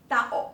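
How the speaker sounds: "tao" split into ta, then o; break between vowels. Shown as a demonstration. Teacher repeating for learners, "tao" with a catch between vowels. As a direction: put a small stop inside "tao". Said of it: "中间要顿一下".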